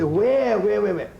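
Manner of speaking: high, loud repeated demand; urgent police questions. Retold or imitated. Police officers demanding of the old woman, high and loud. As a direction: bark it like hurried cops.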